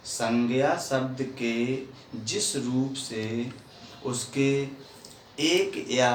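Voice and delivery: slow, spaced-out dictation; slow motion. Shown as a demonstration. Teacher repeating a definition for children, slowly. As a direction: say it slowly, phrase by phrase. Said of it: "slow motion में".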